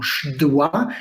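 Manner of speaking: "szydła" squeezed into the cluster szdł, slowly; hard consonant cluster. Shown as a demonstration. Lecturer shows how hard the group is, slow clustered "szydła". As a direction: slowly work through sz-d-ł in "szydła". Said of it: "bardzo trudno jest wymówić tę grupę".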